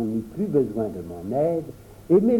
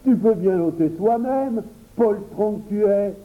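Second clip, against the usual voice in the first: higher, louder scolding of a coward; indignant; 5 semitones higher, 4 dB louder than usual. Acted. Henri scolds the boy who won't remove the frog. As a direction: scold him for being a coward. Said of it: "avec indignation".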